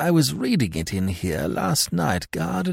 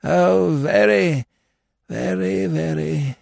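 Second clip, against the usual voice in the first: high-pitched fading repetition; absent, trailing off; 10 semitones higher, slower than usual. A narrator's reading. Lord leaving with his book, absent-minded. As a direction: trail away while reading. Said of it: "trailing to the door and reading".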